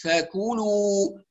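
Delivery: "فكلوا" slowly with thin aspirated k and full u; light ك. Shown as a demonstration. Teacher models the corrected word, light ك. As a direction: draw out "فكلوا", keeping the k light. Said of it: "ترقيق الكاف وعلى همسها".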